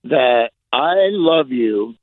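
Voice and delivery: slow and sincere; sincere love. Real, not acted. Telling his old friend on air he loves him, slow and sincere. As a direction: say it slowly, meaning every word. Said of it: "sincere on-air tribute".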